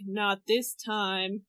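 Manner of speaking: slow, low doom-laden verdict; the devil tells Zelda her sister is gone, slowly and ominously. Retold or imitated. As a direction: pronounce it slowly like a dark lord. Devil declares Hilda is dead.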